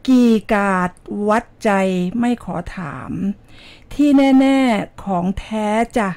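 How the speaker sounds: rhythmic Thai verse read in measured phrases; poem recital. Shown as a demonstration. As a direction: recite it like a poem, pausing between lines. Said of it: "เดี๋ยวอ่านกลอนจากคุณเสือหวานเจี๊ยบนะคะ".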